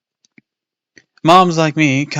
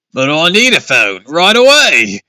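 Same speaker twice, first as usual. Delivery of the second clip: louder, higher angry demand; angry insistence; 6 semitones higher, 9 dB louder than usual. Acted. Father demanding a phone from the monster, angry. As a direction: insist hard, glaring. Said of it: "Dad insisted, glaring angrily".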